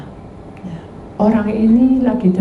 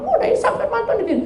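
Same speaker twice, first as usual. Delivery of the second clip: mocking imitation; 13 semitones higher, 4 dB quieter, faster than usual. Mocking the man who argues back.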